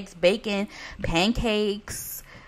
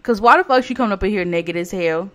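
1 calling out; 7 dB louder than usual. Real, not acted. Ordering the naked sim out.

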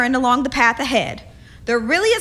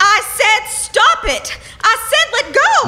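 high frightened shout, climbing; 11 semitones higher, 5 dB louder than usual. Acted. Molly shouting at the captain to let her go. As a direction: yell at him to let go. Struggling against his grip.

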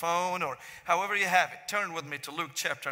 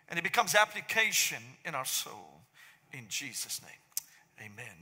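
prayer. Acted. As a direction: pray over the word, slowing down to a hushed amen. Leads a prayer.

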